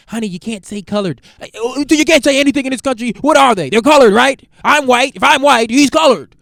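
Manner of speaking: hammed-up housewife protesting she can't say anything; exasperated wife. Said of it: "his wife is like".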